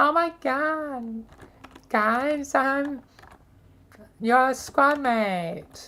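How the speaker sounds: high-pitched annoying voice, slow, god stretched out. Describing an annoying soldier from a past squad: imitating a high-pitched voice. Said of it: "a high s-, pitch voice like".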